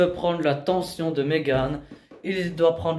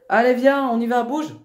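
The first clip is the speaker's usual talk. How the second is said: urging on; 5 semitones higher than usual. Real, not acted. Educator daring the young woman to go, urging. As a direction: push them to get moving, voice raised. Urges Megan to leave.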